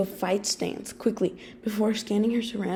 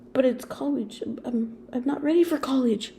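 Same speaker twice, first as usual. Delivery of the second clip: exclaiming; 5 semitones higher than usual. Acted. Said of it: "you exclaimed".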